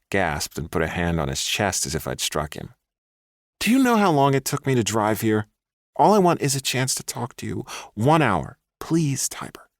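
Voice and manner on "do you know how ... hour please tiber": much higher, wheedling man's voice. A narrator's reading. Ex boyfriend wheedling the woman he stalked. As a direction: sweet-talk her into lunch. Ex begs.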